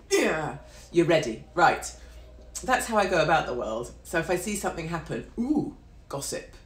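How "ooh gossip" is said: high, drawn-out gossipy ooh; nosy delight. Acted. Onlooker spotting something happening, gleefully nosy. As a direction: relish the gossip, slowly and pitched up.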